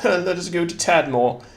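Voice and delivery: high, laughing "let us go to Tadmor"; mock grand proclamation. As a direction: announce it like an old king. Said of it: "That sounds very English".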